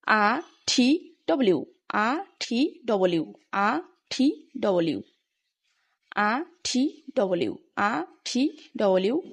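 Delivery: আ open without r, ঠি aspirated, ডব্লিউ in full; pronunciation drill. Shown as a demonstration. Teacher models letters to practise over and over, pronunciation drill. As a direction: repeat আ, ঠি, ডব্লিউ spaced out. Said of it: "কয়েকবার করে practice করতে লাগবে".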